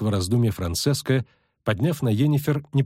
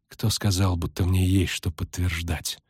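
cool challenge; slower than usual. Acted. Bristles at demand for loyalty.

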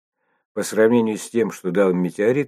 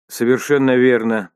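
emphatic agreement, higher and louder; exclaiming; 5 semitones higher, 6 dB louder than usual. A narrator's reading. Nora backs up the administrator, exclaiming. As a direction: exclaim it with raised pitch and volume. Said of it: "воскликнула Нора".

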